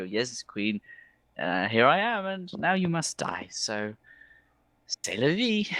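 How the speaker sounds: lilting elf swooping up high; breezy, sing-song character verdict; theatrical elf, resigned. Acted. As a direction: deliver doom with an airy shrug. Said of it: "and I go".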